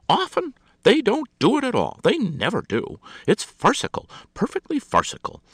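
high, loud scornful retort. A narrator's reading. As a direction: scoff at the idea. Scornful hostess.

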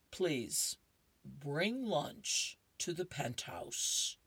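lightly voiced cat, slow and lofty; slow polite Garfield. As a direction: drawl it like a smug cat. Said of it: "he says".

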